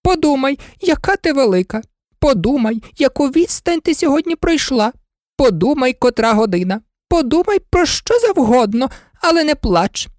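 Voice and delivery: high, fluttering queen pleading; fussy queen. A narrator's reading. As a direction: coax her high and anxiously out of tears. Queen pleads with crying Alice.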